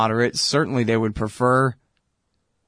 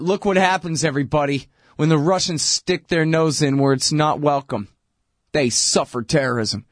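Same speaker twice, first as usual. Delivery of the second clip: mock gloating; 3 semitones higher than usual. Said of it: "he was just gloating".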